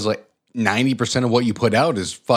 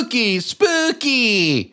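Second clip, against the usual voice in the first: slow, higher drawn-out call; mock scream; 9 semitones higher, much slower than usual. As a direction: stretch "Ookie Spooky!" like a spooky yell. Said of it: "like, screamed".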